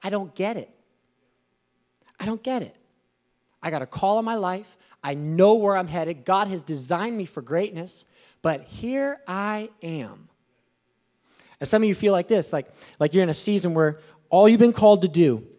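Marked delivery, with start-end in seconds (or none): 0.0-10.3 bewildered complaint. Retold or imitated. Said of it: "you're like".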